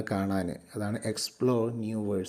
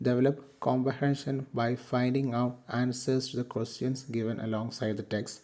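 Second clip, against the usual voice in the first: reads each English phrase out slowly and evenly; slow textbook reading; much slower than usual. Acted. Teacher reads the outcome to students, slowly and clearly. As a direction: read it out for the class word by word.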